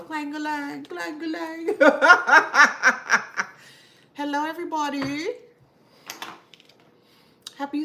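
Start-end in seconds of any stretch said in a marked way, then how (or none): 0.0-1.7 clanging sound. Retold or imitated. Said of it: "little water bottle". 1.8-3.7 loud laugh. Real, not acted. Laughing after clang imitation.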